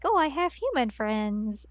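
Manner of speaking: lightly acted happy delight; a touch of giddy, lilting joy; super happy. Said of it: "Mary gets super happy".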